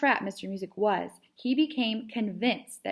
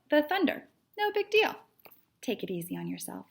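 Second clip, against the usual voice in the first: lightly voiced patronizing girl cat, pitched up; a hint of a know-it-all consoling a friend; Edith the cat; 3 semitones higher than usual. Edith kindly talking down to Stick Cat, mildly smug.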